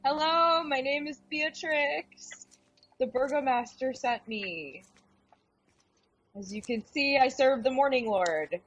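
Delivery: gentle introduction. Acted. Cleric introducing herself to the crying woman. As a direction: introduce yourself kindly.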